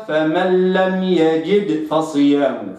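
يجد said as "yajid" with a full kasra, like "finding"; wrong: فمن لم يجد with the i of يجد drawn out; wrong reading. Shown as a demonstration. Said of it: "فلا أقرأها".

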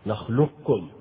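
نخلقكم with the qaf fully merged into the kaf, a double kk; full assimilation. Shown as a demonstration. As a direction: say نخلقكم as nakhlukkum, full idgham. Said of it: "من غير إبقاء صفة الاستعلاء من القاف".

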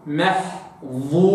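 محظورا slow, with a heavy emphatic ẓā, not ذ; محظورا with a thick emphatic ẓā. Shown as a demonstration. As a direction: give the ẓā in محظورا full weight. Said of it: "أراعي تفخيمها".

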